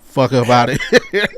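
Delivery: mock athletic director. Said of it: "They gonna walk straight into Ryan Day's office".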